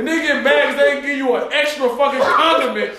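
mock shouted scolding; half-laughing mock rant at the friend; retold scolding. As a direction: tear into him for being mad. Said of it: "I said".

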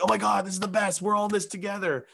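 high, gushing mock fan voice; mocking gushers. Comedian mimicking gullible followers, high and gushy. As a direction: parody people cheering a shared post. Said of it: "they're like".

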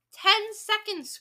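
high, loud, drawn-out call; crying out. A narrator's reading. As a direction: announce the countdown slowly and forcefully. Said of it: "cried the Grand High Witch".

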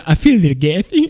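smooth ladies' man voice, lightly voiced; oily smooth seducer. Shown as a demonstration. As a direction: croon it like a cheesy charmer. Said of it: "Is that the voice?".

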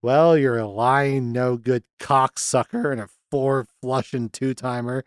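unhurried, offhand recited insult; deadpan movie-quote delivery; casual insult. Retold or imitated. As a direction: toss the insults out casually, no outburst. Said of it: "he says it so casually".

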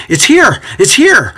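high, excited exclamation; thrilled, eager announcement; enthusiastic. A narrator's reading. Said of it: "Timothy exclaims with enthusiasm".

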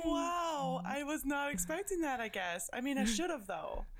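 choked up, a little tearful. Real, not acted. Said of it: "Sorry, I'm just crying".

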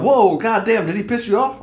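high, loud imitation of shocked friends; startled reaction. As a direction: act out teammates taken aback by the outburst. Retold reaction of startled party members.

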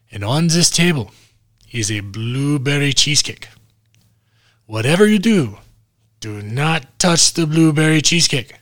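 mock German accent, deliberate pauses between instructions. Film doctor warning his patient about a cheesecake, German accent. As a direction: imitate a German doctor giving emphatic instructions. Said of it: "he's talking with a German accent".

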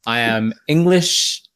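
slow, haughty, English as the Queen; mock indignant posh. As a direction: play it proud and offended, slowly. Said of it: "And I'm like".

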